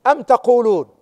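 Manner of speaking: أم تقولون with the ta sound, تقولون; reading with ta. Shown as a demonstration. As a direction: say تقولون starting with a clear t. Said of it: "قراءة التاء".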